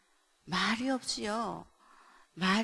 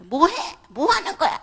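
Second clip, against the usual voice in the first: high, loud scolding questions; acted loud demand; 7 semitones higher, 15 dB louder than usual. Mother demands child explain picture, loud and high. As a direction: demand an answer, pitch shooting up.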